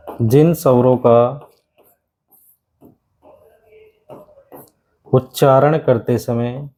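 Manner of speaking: slow, word by word for notes; a teacher spelling it out slowly; slow dictation. Shown as a demonstration. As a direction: dictate slowly so students can write. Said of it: "तो आप लिख सकते हो".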